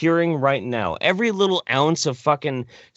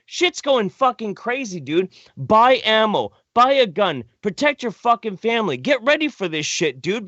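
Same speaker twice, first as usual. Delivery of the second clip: call to arms; 4 semitones higher than usual. Pretend.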